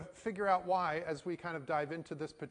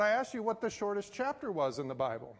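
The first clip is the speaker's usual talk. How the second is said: higher, pressing restatement of a question; retold insistent demand; 4 semitones higher, 3 dB louder than usual. Passport officer pressing pastor for the right answer, insistent.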